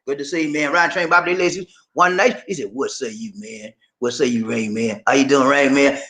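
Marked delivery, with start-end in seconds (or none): 2.7-6.0 a lightly voiced fan greeting; quoted fan greeting. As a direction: drop the voice to play the fan. Voicing a fan's greeting.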